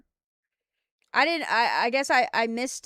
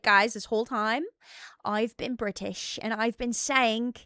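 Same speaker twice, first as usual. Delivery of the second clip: lightly acted British accent; mock British accent; 2 semitones lower, 4 dB quieter than usual. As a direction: confess in a put-on British accent. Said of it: "putting on an American accent, but actually I'm British".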